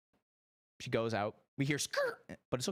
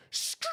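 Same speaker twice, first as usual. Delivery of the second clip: imitated tire skid. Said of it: "I'm just gonna back up".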